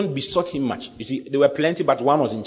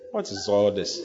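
laughing self-mockery; 4 semitones lower than usual. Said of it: "the next thing you say is".

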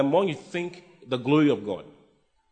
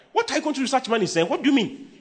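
much higher, mocking disbelief; preacher mimicking a doubter, high and incredulous; 9 semitones higher, faster than usual. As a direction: parody the doubter's shocked question. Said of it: "all those of you talk like that".

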